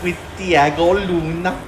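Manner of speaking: put-on Danish accent. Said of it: "your Boston accent".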